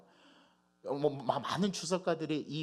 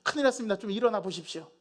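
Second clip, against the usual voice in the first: loud, high-pitched urgent pleading; alarmed disciples; 8 semitones higher, 5 dB louder than usual. Acted. Disciples shaking Jesus awake in the storm, alarmed cry. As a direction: call out in alarm to wake him. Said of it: "제자들이 가서 예수님을 막 흔들어 깨웁니다".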